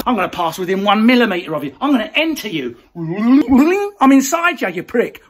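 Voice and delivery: fast, loud taunting bloke; menacing creep. Pretend. Mocking a shopper invading a Tesco worker's space, fast and sneering. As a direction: push it at them like a sneering yob.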